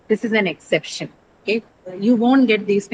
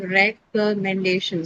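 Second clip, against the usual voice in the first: syllable by syllable; slower than usual. Shown as a demonstration. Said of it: "day and shin are two different syllables".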